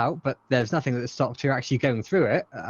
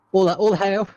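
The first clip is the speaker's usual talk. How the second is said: dark lord; 6 semitones higher, 4 dB louder, slower than usual. Pretend. Joking as the creator.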